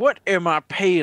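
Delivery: put-on Southern gentleman accent. Complaining with friends about paying taxes, suddenly in a Southern gentleman voice. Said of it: "Why do you sound like a Southern gentleman".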